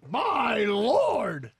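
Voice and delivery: high, stretched-out mock yell; imitated yell. Co-host trying out dad's driving outburst, mock yell. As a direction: copy the dad's alarmed cry, no real volume. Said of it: "you gotta yell".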